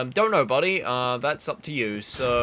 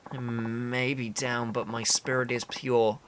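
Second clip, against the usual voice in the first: weak, halting, solemn; frail but dignified game character; cling to pride with little strength; starving proud man. Acted.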